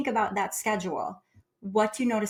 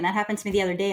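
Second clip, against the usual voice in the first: ordinary talk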